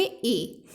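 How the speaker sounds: 'ए' said on its own as a short a sound; vowel demo. Shown as a demonstration. Teacher answering her own quiz on the short a vowel. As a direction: isolate the vowel 'ए' for the class. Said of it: "वो क्या थे?".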